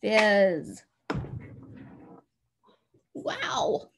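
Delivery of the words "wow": impressed. Real, not acted. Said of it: "praising the child".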